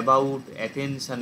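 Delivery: about and attention said very slowly with a short schwa; schwa demo. Shown as a demonstration. Teacher demonstrating the schwa to students, slow. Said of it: "এই অ্যা এতখানি টেনে উচ্চারণ হয় না".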